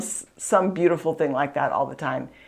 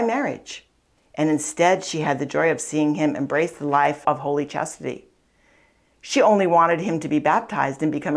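spiritual book read aloud with feeling; 2 semitones higher than usual. Acted. Speaker reads a book passage to listeners, earnest reading voice.

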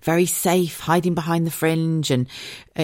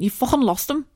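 friend Bex; 8 semitones higher than usual. Retold or imitated. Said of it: "She went".

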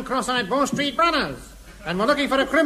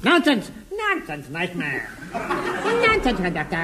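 squeaky ventriloquist dummy; 5 semitones lower, slower than usual. Acted. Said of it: "I'm a ventriloquist dummy".

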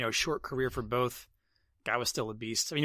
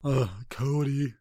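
whispered disgust; slower than usual. Real, not acted.

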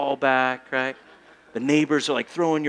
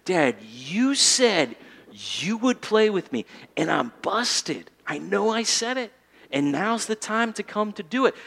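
put-on mild kid appeal, slower; 3 semitones higher than usual. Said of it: "he makes that appeal".

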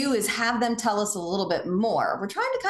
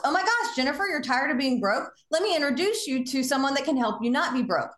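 over-eager pounce; 3 semitones higher than usual. Shown as a demonstration. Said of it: "the referral pounce".

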